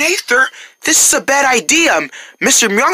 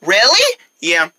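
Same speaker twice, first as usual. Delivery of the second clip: grudging; 8 semitones lower, 4 dB quieter than usual. Acted. Grumpy neighbor reluctantly considers jokes.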